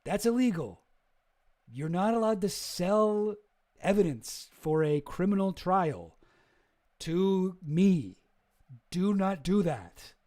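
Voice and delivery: firm lawyer warning. Retold or imitated. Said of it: "Brad Edwards was like".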